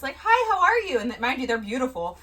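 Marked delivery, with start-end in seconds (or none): 0.2-1.0 high, sweet imitated hello; louder, lifted mock greeting; puppy-dog greeting. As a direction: greet like an eager puppy, pitched up. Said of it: "looked at me like puppy dogs".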